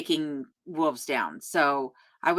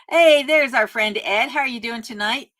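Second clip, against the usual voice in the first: excited greeting; 5 semitones higher, 3 dB louder than usual. Real, not acted. Greeting a friend joining the stream.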